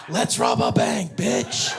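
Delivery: loud, slow, laughing shout; proud shout. Retold or imitated. Dad thrilled with daughter, slow laughing shout. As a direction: whoop it out proudly. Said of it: "I was like".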